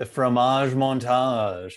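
slow, vaguely French mock accent; a muddled attempt at French, drawn out; not-quite-French accent, slowly. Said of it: "I don't even know what kind of an accent that was".

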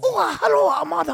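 put-on very high, loud caricatured Asian accent; mock Asian accent. Buddy greeting his mom on the phone, mock Asian accent. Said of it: "in a racist Asian accent".

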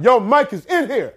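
high mock heckler's call; excited crowd yell, half-volume; retold yell. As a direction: call it out across a room. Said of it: "somebody yells out".

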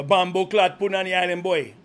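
a playful hint of a Jamaican accent; hamming up Jamaican island slang; mock Jamaican accent. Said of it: "your Jamaican beer can".

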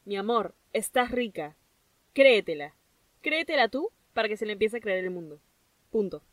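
intimate pep talk. Pretend. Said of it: "Te estoy mirando a los ojos y te estoy diciendo".

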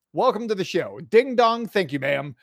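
punchy broadcaster call, falling off; home run call. Acted. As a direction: announce it like a homer just left the yard.

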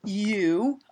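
slow halting speech, balancing. Pretend. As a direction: drag each word out carefully. Pretend balancing on tightrope.

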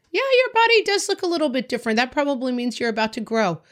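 lightly voiced parent, starting high and quick; matter-of-fact parent. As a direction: answer your kid breezily, pitch settling down. Voicing parent answering child's body question.

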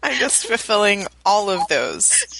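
husky, rough voice from a cold; hoarse sick voice. Real, not acted. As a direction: rasp through a sore throat. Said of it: "that is a good voice".

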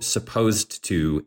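supposed to drawn out slowly, set off as a quote; slow down and put supposed to in audible quote marks; sarcastic air-quote on supposed to; air-quoted phrase. Shown as a demonstration.

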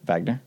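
Wagner begun with a V sound; German W as V. Shown as a demonstration. Host explaining the player's name, German W. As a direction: pronounce the W in Wagner as V. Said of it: "with a German W".

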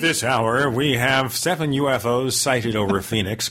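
newscaster voice. Pretend. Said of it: "speak like a newscaster".

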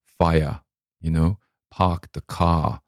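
FIRE, PARK, CAR all without R; Maine dropped R. Shown as a demonstration. Demonstrating the Maine dialect, final R's dropped. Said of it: "but in Maine, at the end".

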